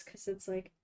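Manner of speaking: talking while holding breath; strained, breath held in. Real, not acted. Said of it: "holding my breath as I'm doing this".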